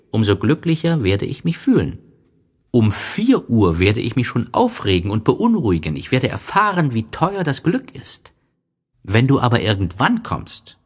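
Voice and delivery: excited story fox, pitch lifted; eager fox. A narrator's reading. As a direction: build the anticipation with lively urgency. Fox anticipates the prince's visits.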